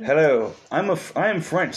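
lightly put-on French accent; mock French accent; French accent attempt. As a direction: read it like a French poster, accent half there. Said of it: "They would hate me for doing a British accent for French".

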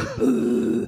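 growling demon voice tic. Shown as a demonstration. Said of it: "ficava desse jeito".

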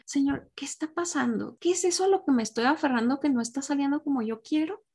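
prayer voice. Acted. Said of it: "preguntarnos en oración y decir".

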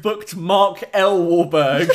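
giggling mock announcement. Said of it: "we kept giggling".

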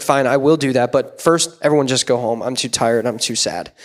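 low, resigned giving-in; dejected. Acted. Preacher acts out Samuel giving in to God's order, dejected. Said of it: "He's so dejected".

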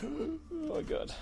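high, slow gasp of disbelief; stunned reaction. Real, not acted. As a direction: draw it out, high-pitched and aghast. Reacting to the pushed roll.

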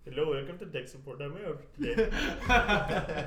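mock tech support accent; Indian accent. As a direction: put on a call-center accent. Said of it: "Bob could be tech support".

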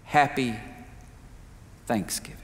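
soft, faint and fragile; frail whisper. A narrator's reading. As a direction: breathe it like a dying woman. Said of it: "in a frail voice whispered".

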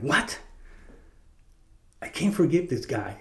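high, disbelieving protest; incredulous. Retold or imitated. Confessing man to the priest, high and incredulous. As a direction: push back high, not believing it.

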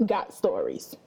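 got stories dropped way low and flat; deep deadpan drop. Acted. Host mocking apps copying stories, deep deadpan drop. Deadpan punchline about copied features.

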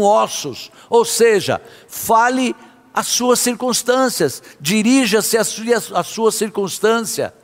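forceful, declarative sermon delivery; emphatic preaching. Real, not acted. Preacher urging believers to speak to their fears, emphatic preaching. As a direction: preach it with conviction, phrase by phrase.

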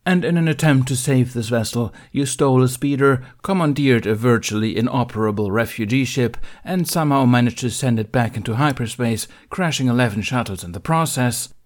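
loud, firm dressing-down; stern Jedi master. Acted. Mace Windu scolding Ben before the council. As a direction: read the charges like a cold judge.

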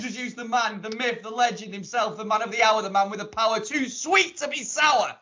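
hype introduction. Acted. Host hypes guest's introduction.

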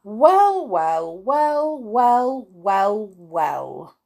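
loud start high, stepping down word by word; exclaiming. A narrator's reading. Wizard amazed at the spilled money, exclaiming in descending steps.

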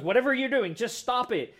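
a hint of the deadpan counselor; curt therapist. Counselor Newhart to patients, blunt mock order. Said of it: "He goes".

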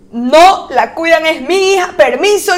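drawn-out, insistent refusal; firm mother. Retold or imitated. Mother refusing to leave her daughter, firm. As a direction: put your foot down, lightly acted. Protective mother pushes through crowd.

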